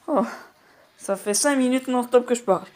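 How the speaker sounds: winded after talking nonstop; catching breath between words. Real, not acted. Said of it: "Oh, je suis essoufflé".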